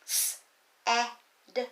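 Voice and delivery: S-A-D spelled letter by letter; sounding out letters. Shown as a demonstration. Teacher spelling S-A-D as pupils tap. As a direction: call out each letter of S-A-D. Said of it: "Can you tap that word out?".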